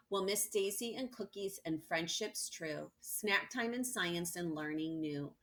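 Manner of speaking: poem recital. Acted. Reads the class poem.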